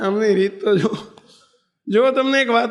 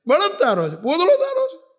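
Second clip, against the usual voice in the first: rude taunt; 4 semitones higher than usual. Acted. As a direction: talk down to him rudely, rising to a high jeer. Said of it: "ટૂંકારો કરીને મહારાજને". (તોછડાઈથી બોલતી ડોશી, છેલ્લે ઊંચો સૂર)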